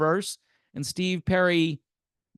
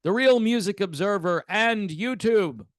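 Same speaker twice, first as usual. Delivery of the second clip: soap-opera announcer; 3 semitones lower than usual. Acted. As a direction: announce it like a TV drama host.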